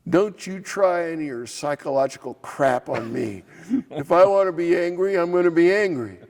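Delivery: imitating an irritated lobbyist's retort; angry retort. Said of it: "I'm so mad now".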